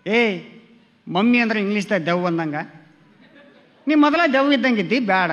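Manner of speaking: loud scolding of the wife; loud mock telling-off. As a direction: tell her off, loudly. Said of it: "ನಾನು ಬೈದೆ".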